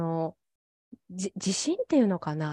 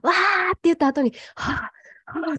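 mock breathy sigh; 10 semitones higher than usual. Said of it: "そんな喋り方をしてました".

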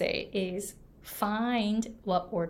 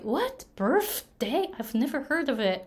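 mock surprise; 4 semitones higher than usual. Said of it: "the other person was like".

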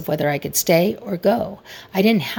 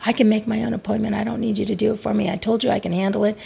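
imitated lashing back; 4 semitones higher, faster than usual. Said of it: "him lashing back at me".

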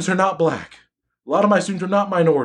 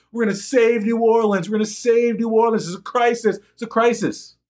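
lightly raised mock earnest celebrity pledge; 5 semitones higher than usual. Mocking celebrities who rushed to New Orleans, lightly raised mock urgency. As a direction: parody their showy concern, a bit higher. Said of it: "celebrities hopping on private jets".

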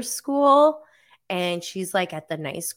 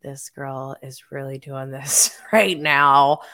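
disbelief; 4 semitones lower, 4 dB louder than usual. Retold or imitated. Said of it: "I'm just like".

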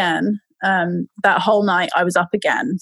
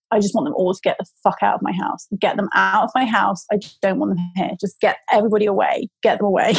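fed up outburst; faster than usual. Retold or imitated. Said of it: "I said to Mike".

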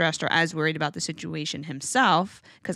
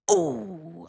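playful ooh. Shown as a demonstration. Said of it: "making sounds where I'm doing".

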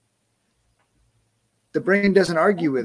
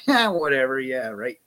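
dismissive; 3 semitones lower than usual. Retold or imitated. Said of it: "the brain's going".

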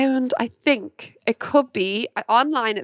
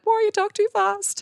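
mock critic; 11 semitones higher than usual. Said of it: "some people have said".

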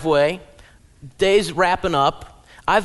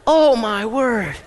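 laughing; 4 semitones higher, 5 dB louder, much slower than usual. Real, not acted. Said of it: "laughing exclamation".

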